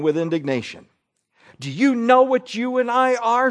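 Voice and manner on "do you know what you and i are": a higher, pointed demand voiced for Julie. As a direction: fire the question at her friend. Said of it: "she demanded".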